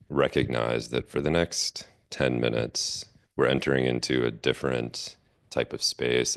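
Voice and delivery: unhurried guided meditation, long pauses; measured meditation-teacher delivery with space between phrases. Acted. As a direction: guide the group gently into settling, phrase by phrase.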